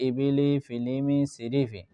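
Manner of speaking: "ইবিলি, ফিলিমি, সিরিফি" as whole blended words, evenly spaced; reading demo. Shown as a demonstration. Teacher showing the reading after spelling, measured word list. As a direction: read each word joined, settling down on "সিরিফি". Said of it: "তো reading হইল গিয়া".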